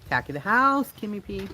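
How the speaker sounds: high-pitched mock spirit-box voice; garbled spirit box. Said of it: "They don't speak clearly".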